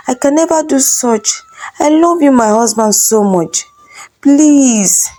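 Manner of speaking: high, desperate begging; pleading wife. Acted. Wife on her knees begging her husband, high pleading. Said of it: "begging her husband".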